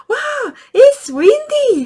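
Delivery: very high, loud, slow wow; excited exclaim. Shown as a demonstration. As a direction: share the windy day with your child. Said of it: "하고 이렇게 얘기를 해보는 거예요". (아주 높고 크게 신나서 외치기)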